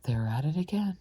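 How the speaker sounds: loud shouted call. Acted. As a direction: shout it out at full voice. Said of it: "shouted at the top of his voice".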